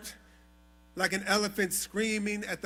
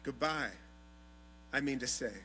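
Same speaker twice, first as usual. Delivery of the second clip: soft, lower, intimate closing; hushed; 8 semitones lower, 9 dB quieter than usual. Acted. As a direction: bring it down to a near murmur. Closing of gratitude poem, intimate.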